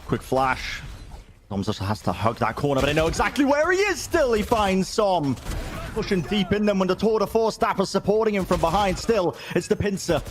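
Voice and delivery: fast, high, excited play-by-play; esports caster. Acted. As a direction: call the action as it happens. Live play-by-play commentary.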